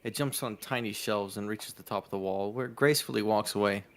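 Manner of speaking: measured storyteller reading; game master's descriptive read; game story narration. A narrator's reading. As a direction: narrate the scene evenly to the players. Reads the game's scene aloud.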